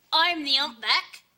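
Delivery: deaf Cockney hunchback. Pretend. Friend playing deaf hunchback, shouting at wife. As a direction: play a hard-of-hearing hunchback, yelling. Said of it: "I'm out of earring".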